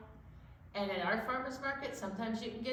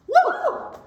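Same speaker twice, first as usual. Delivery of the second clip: high, loud cheer with a laugh; whooping woo; 17 dB louder than usual. Shown as a demonstration. Teacher showing the kids how to woo, laughing. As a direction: let a joyful woo fly. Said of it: "woo with me".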